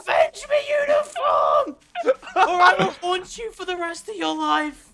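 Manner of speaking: overacted death scene. Dying character's last words.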